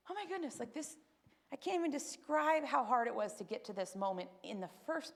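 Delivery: high, hushed oh my goodness; retold dismay, breath catching; overwhelmed gasp. Alone at home after the call, a hushed overwhelmed gasp.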